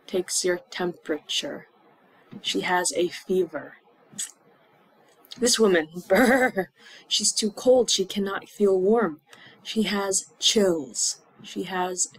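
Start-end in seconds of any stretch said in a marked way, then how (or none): 5.4-6.7 mock shiver. Shown as a demonstration. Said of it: "shows chills".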